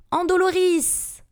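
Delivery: high incantation; cried-out curse. A narrator's reading. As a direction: hurl the curse at a victim. Krum casts a torture curse.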